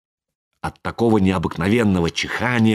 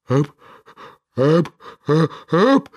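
rising wailing "ep, ep" before a sneeze; howling sneeze build-up; 5 semitones higher than usual. A narrator's reading. Karabas howls as a sneeze builds up. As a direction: howl the gasps higher and higher. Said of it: "завыл Карабас-Барабас".

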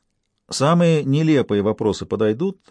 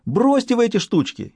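much higher, hysterical near-sob; 13 semitones higher than usual. A narrator's reading. Stas, frightened of the curse, hysterical sob. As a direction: break into panicked hysteria. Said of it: "истерически всхлипнул Стас".

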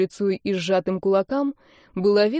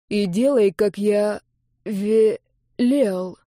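по слогам; slower than usual. A narrator's reading. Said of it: "по слогам выговорил он".

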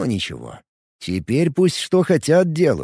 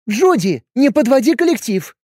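high, loud scolding; indignant; 11 semitones higher, 4 dB louder than usual. Acted. A girlfriend scolds Judy for siding with him, indignant. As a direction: rebuke her for breaking ranks. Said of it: "возмутилась Юля".

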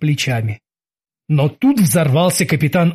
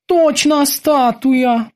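high, very drawn-out bosun voice; high character voice, stretching the words; Kiki confirming; 9 semitones higher, much slower than usual. A narrator's reading. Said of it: "подтвердил Кики".

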